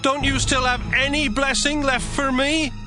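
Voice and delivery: very high-pitched begging son; desperate plea. Acted. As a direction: plead with your father for what is left. Esau pleads with his father.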